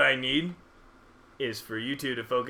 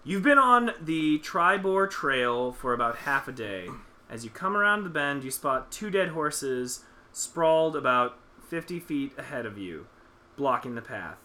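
game master narration. Acted. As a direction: paint the trail scene calmly. DM sets the scene.

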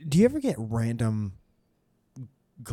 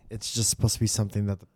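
whispering; faster than usual. Real, not acted. Whispering while burned.

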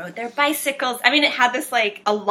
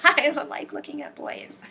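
laughing; 7 semitones higher, 5 dB quieter than usual. Retold or imitated. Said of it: "I was like".

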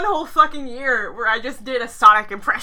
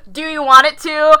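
Griffin voice; 6 dB louder than usual. Pretend. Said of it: "that was too nasally".

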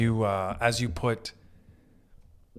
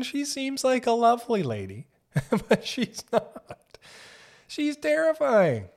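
high, slow and sugary, then spooky; mock sweet voice; 11 semitones higher, slower than usual. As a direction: coo it like a lovely lady, then turn it creepy. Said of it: "mock Hillary Clinton commentary".

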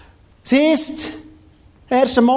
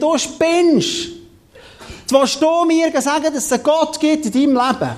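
raised pitch, mock disbelief; acted incredulous scoffing; 5 semitones higher than usual. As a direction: challenge him like a scoffing cellmate. Acted prisoner scoffing at Josef. (gespielt ungläubig und empört)

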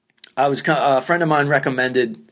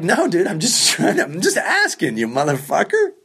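higher-pitched, half-laughing protest; 4 semitones higher than usual. Retold or imitated. Comic answering the owner's outburst about money, laughing protest. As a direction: plead innocence through a chuckle.

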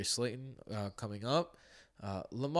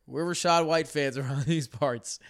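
mock jeering; 4 semitones higher, 5 dB louder than usual. Mock-hostile jeers at a player.

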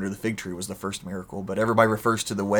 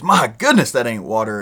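the cop's hammed-up shock at the taste; 7 dB louder than usual. Cop after a swig, loud mock surprise.

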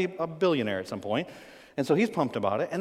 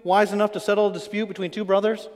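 sarcastic. Acted. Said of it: "Here's the sarcasm".

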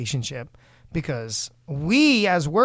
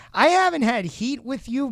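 emphatic denial; 8 semitones higher than usual. Real, not acted. Denying beef with a rival.

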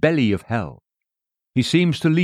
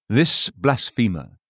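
contempt; slower than usual. Retold or imitated. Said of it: "Thus Christ read their contempt".

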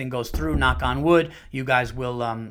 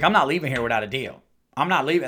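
quick, stubborn Southern refusal; imitated Southern accent; faster than usual. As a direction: lightly put on a Southern twang, fast.

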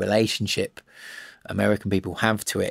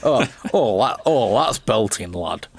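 train conductor. Retold or imitated. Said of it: "conductor came along and he was like".

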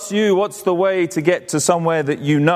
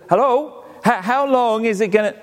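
impatient hello; 4 semitones higher than usual. Retold or imitated. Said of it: "He said".

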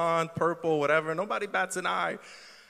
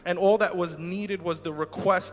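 prayer. Acted. Leads a prayer.

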